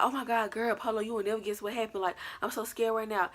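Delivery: panicked retelling. Retold or imitated. Telling friend Polo about a scare on FaceTime, mildly panicked. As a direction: imitate your own panicked phone call. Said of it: "I was just panicking".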